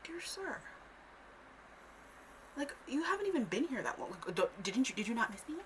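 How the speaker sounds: very high opening, plaintive; mock plea to the departing dad; mock pleading child. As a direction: plead like a wounded kid. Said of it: "I'm like".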